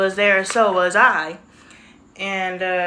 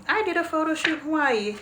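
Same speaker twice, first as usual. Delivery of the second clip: playful repeat; 7 semitones higher than usual. Shown as a demonstration. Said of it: "repeat of same line".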